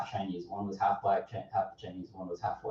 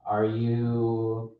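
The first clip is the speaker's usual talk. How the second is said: mock eager barista; 3 dB louder, much slower than usual. Imitating barista.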